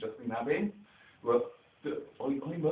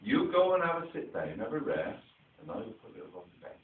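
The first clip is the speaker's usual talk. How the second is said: kind dad agreeing; 5 semitones higher, 4 dB louder than usual. Retold or imitated. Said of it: "And he'd go".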